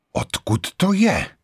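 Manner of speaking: vysoko, pomalu a ostře; vyštěkni podezíravou otázku; ostrá otázka. A narrator's reading. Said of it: "zeptala se ostře". (Vera ostře odmítá sklenici brandy)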